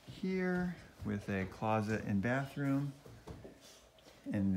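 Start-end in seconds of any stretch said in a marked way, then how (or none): 0.0-2.9 hushed, softer voice; quiet. Real, not acted. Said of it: "I'll be quiet 'cause the baby's sleeping".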